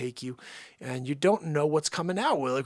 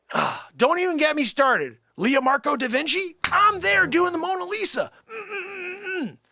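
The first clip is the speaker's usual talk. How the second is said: high, loud hammed-up sobbing; mock weeping; 12 semitones higher, 6 dB louder than usual. Artist mourning his Mona Lisa, hammed-up crying. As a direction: wail over the painting in jest.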